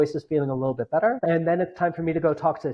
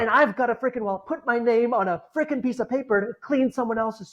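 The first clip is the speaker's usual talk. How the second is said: inner grumbling; 5 semitones higher than usual. Retold or imitated. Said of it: "the monkey in my head is sitting there saying".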